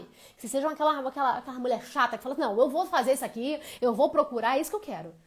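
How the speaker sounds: loud, insistent mock voice; mock pushy woman. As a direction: play the stubborn woman, loud and firm. Mocking the pushy demanding woman.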